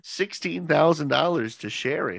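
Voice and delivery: hammed-up fake curiosity; mock innocent suspicion. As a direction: play dumb with heavy sarcasm. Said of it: "I'd be like".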